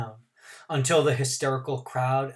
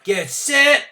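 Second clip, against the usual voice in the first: high, loud call; starter's call; 13 semitones higher, 9 dB louder than usual. A narrator's reading. Starter Bump calling the runners, loud call. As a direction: snap it into the pause. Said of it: "Bump Gilliam jumped into the let-up".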